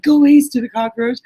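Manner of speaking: mock bratty insult. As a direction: play the cool second-grader brushing off her sister. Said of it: "I'm like".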